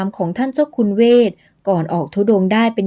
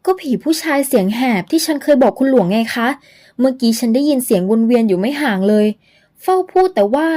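put-on higher, frightened girl's voice; startled young woman; 4 semitones higher than usual. Young woman warns Luang of the ghost, higher and frightened. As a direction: gasp it out to Luang, scared and high.

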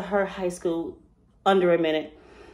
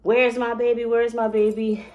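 mild mock yell, pitched up; half-hearted retelling of a frantic scream; retold scream; 3 semitones higher than usual. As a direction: cry out for a missing child, held back. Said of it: "I immediately started screaming".

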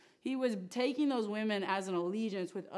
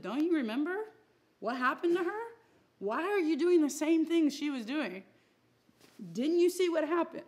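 higher, louder, urgent questions; raised, insistent prophetic appeal; pleading prophet; 7 semitones higher, 5 dB louder than usual. Retold or imitated. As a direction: plead like a prophet warning his people. Prophet Jeremiah voiced warning Judah.

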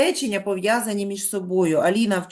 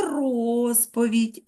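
drawn out; 2 semitones higher, much slower than usual. Shown as a demonstration. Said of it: "ми повинні слово вимовити протяжно".

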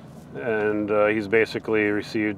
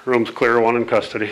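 calling out; 2 semitones higher, 6 dB louder than usual. Real, not acted. Officer calling out status.

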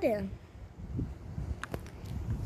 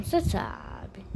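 slow teasing whisper; 2 semitones higher, 6 dB quieter, slower than usual. Pretend. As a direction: breathe it like a secret. Teasing about the button.

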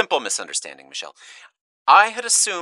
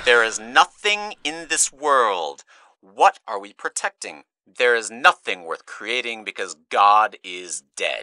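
a touch louder, pressing rant; 5 dB louder than usual. Acted. Speaker ranting at Mitch about nothing mattering, insistent. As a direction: push each line at him a little harder.

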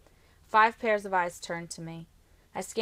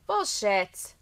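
whined; 3 semitones higher, 6 dB louder than usual. A narrator's reading. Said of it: "Trenton whined".

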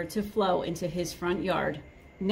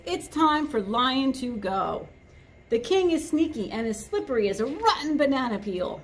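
fiery monkey speech; 4 semitones higher than usual. Acted.

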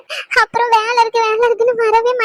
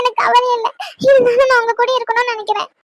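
crying plea. Acted. Wife crying, pleading.

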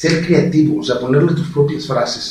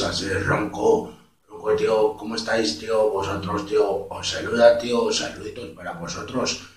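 husky, softer Castilian voice; hoarse Spanish accent; 3 semitones lower, 6 dB quieter than usual. Shown as a demonstration. Adding step two for viewers, hoarse Castilian accent. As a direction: add rasp to the Spain accent. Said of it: "si le agregas lo ronco".

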